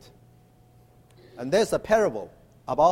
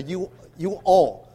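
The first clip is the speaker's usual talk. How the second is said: Illinois way of saying. Shown as a demonstration. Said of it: "We say".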